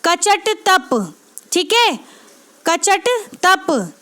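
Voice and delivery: each syllable drawn out slowly for memorising; teacher spelling out the formula slowly to students, syllable by syllable; slow spelled-out mnemonic. Shown as a demonstration. Teacher drilling a memory formula, slow. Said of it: "जैसे".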